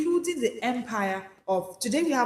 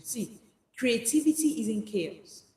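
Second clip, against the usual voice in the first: ordinary talk, nothing marked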